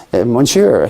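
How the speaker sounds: a hint of a French accent on "Monsieur"; half-hearted French accent, barely attempted; imitating a Frenchman with a weak French accent; bad French accent. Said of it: "it's, it's horrible".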